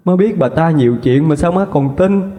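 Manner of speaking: high, tearful protest of innocence; a slapped daughter begging her mother to believe her; desperate pleading. Acted. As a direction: plead with everything you have. Daughter pleads after slap.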